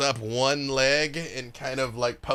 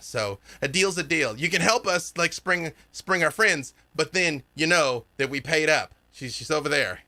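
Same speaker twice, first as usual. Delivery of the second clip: put-on higher-pitched kid pointing out landmarks; eager kid guide; 5 semitones higher than usual. Kid shows the party the way to the unicorn, eager higher voice. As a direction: rattle off directions in a higher, lively voice. Game master plays kid giving directions.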